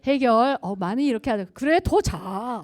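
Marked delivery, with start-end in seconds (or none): 1.5-2.6 slow, gentle "go back to sleep"; dismissive kindness, drawn out; nice husband. Retold or imitated. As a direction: soothe her kindly and unhurried. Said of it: "어, 나이스하게".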